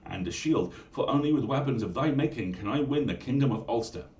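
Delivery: loud, high eager plea; crying out. Acted. Young man begging the smith for weapons, loud pleading cry. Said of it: "cried Conchobar".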